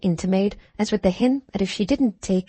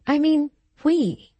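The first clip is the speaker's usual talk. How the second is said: "we" drawn out, slow and slightly raised; stress on we; 6 semitones higher, slower than usual. A narrator's reading. Hostess correcting her guest, slowly stressing "we". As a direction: lean hard on "we" to set it apart. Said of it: "how her accent discriminated".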